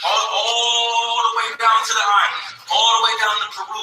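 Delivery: rising street-preacher proclamation; preaching shout. Real, not acted. Preacher builds to a climax.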